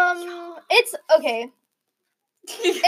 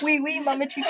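laughing. Pretend. Laughing through repeat.

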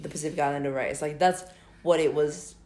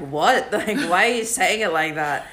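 retold disbelief; 3 semitones higher, 6 dB louder than usual. Cousins' puzzled reaction retold.

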